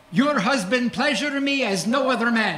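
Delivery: imitated Romanian accent, even pitch; Eastern European accent. Romanian gift shop manager praising a comedian to his wife, Eastern European accent. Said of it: "beautiful Eastern European accent sounded like this".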